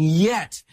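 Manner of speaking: a firm, emphatic "Yet". Shown as a demonstration. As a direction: hit "Yet" like an exclamation point. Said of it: "exclamation point".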